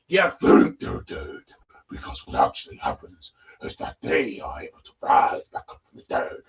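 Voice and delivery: hushed, raspy horror narrator; creepy voiceless spooky-story delivery; carried away. Pretend. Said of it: "got a little carried away there".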